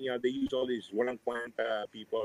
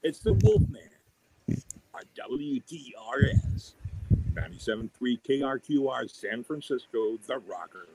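DJ radio plug. Shown as a demonstration. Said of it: "do, like, a plug".

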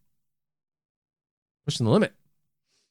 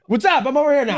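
far off calling; 13 semitones higher than usual. Pretend. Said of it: "somewhere else in the bunker".

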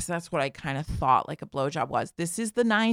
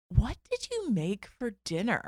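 suspicious mother; 3 semitones higher, 4 dB quieter than usual. Retold or imitated. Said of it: "she goes, ... Like this".

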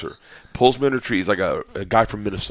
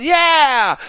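high, excited retelling rising to a loud cheer; mock cheering; 6 dB louder than usual. Crew loving the bear attack, cheering wildly. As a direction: climb into a crowd's whoop. Imitating delighted cheering onlookers.

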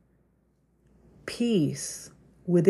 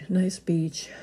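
whispering; 4 dB quieter than usual. Real, not acted. Whispered aside after wheezing.

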